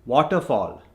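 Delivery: waterfall with rounded "o" vowels; Indian accent. Shown as a demonstration. Coach gives the double example, Indian accent. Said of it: "from the Indian accent".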